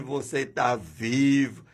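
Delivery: normal talking voice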